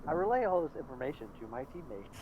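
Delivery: robot voice. Pretend. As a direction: deliver it like a flat robot. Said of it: "Most robotic voice".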